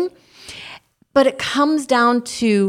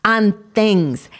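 earnest spoken prayer, steady and measured. Acted. Prayer continues.

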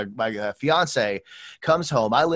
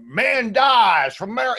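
mock headline; 8 semitones higher, 7 dB louder, much slower than usual.

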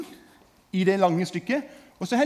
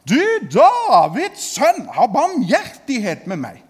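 louder cry; 2 semitones higher, 6 dB louder, slower than usual. Retold or imitated. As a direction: cry out even louder, begging. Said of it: "men han ropte enda høyere". (et høyere, langsomt rop om nåde)

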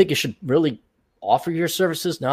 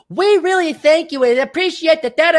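mock scripted thanks; 10 semitones higher, 4 dB louder than usual. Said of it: "Now you have to say".

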